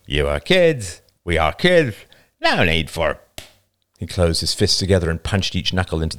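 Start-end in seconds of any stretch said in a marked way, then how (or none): 0.0-3.2 put-on "kids" lisped, the s turned toward th; slight lisp. A narrator's reading. Younger boy reassuring the girls, lisping slightly on "kids". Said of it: "giving him a slight lisp".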